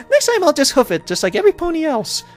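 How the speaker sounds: high-pitched, incredulous questioning; mock bewilderment. Pony baffled by Pinkie's flying, incredulous. Reader acts pony's bewildered reply.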